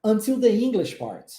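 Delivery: "Until the English part" falling at the end. Shown as a demonstration. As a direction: let the pitch drop on "part". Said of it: "Olha como é que desce no finalzinho". ("Until the English part" descendo no finalzinho)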